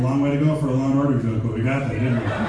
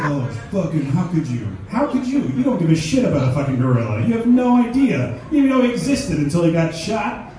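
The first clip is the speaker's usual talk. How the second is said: louder, whining mock outrage; 2 semitones higher, 6 dB louder than usual. A hint of the crowd's whiny outrage as the comic mocks them. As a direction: parody the scolding crowd. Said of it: "Everybody's like".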